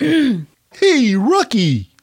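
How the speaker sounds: very high, squeaked cartoon moose voice. Going first in an impression contest with the other speaker, do a Bullwinkle voice. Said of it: "let me hear your Bullwinkle".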